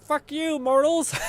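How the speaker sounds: high, loud hammed-up god curse; mock rage. Streamer voicing the goddess cursing mortals, high and loud. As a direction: yell it like a petty goddess.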